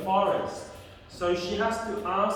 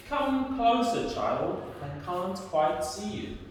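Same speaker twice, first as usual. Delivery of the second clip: wolf as Grandma; 2 semitones higher than usual. Acted. Wolf in disguise lures the child closer, lightly coaxing. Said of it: "And the wolf says".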